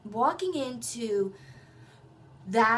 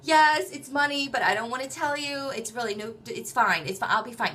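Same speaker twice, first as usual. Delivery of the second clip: upset confession; 4 semitones higher, 5 dB louder than usual. Retold or imitated. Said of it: "I actually started to cry".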